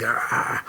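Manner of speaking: low, voiceless "ah" sigh; retold exasperated groan. Woman reacting to his Friday greeting, retold exasperated groan. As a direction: let out a soft deflated groan. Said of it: "she was just like".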